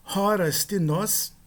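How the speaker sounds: Horas tinos said slowly, syllable by syllable; careful Greek demo. Shown as a demonstration. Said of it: "dois outros exemplos". (Horas tinos pronunciado devagar)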